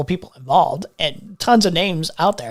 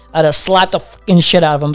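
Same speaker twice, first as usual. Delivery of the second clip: getting mad; 5 dB louder than usual. Real, not acted. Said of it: "I'm actually getting really mad".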